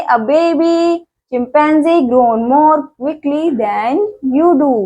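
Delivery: each English word read out very slowly; slow, careful textbook reading; slow reading aloud. Shown as a demonstration. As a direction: read the fact file slowly for young learners. Reads fact file to kids.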